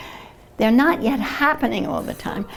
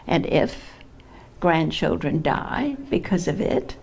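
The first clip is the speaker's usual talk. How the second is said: measured poetry reading with weighted phrases; poem reading. Acted. Poet reads a climate poem to an audience, measured recitation. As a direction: recite it in deliberate phrases, pausing at line breaks.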